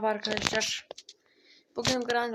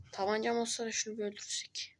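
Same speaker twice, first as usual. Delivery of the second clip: whispering; 5 dB quieter than usual. Real, not acted. Whispering while hiding.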